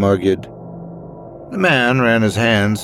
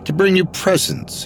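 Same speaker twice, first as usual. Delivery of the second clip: put-on Scottish accent; 3 semitones higher than usual. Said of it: "he asked with a thick Scottish accent".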